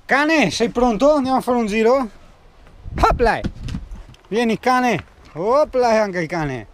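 sing-song to the dog; talking to a dog. Real, not acted. Invites the dog for a walk. (parlando al cane)

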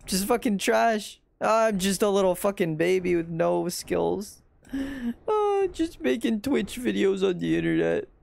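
high, drawn-out self-pitying whine; mock whining. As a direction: wail like a hard-done-by baby, hammed-up. Mock self-pity after failed jump.

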